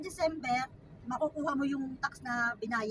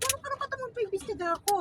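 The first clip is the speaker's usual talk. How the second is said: retold angry retort; 5 semitones higher than usual. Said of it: "Sabi ko".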